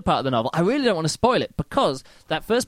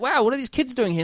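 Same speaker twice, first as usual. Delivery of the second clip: mock surprise; 9 semitones higher than usual. Mocking surprise at sudden kids.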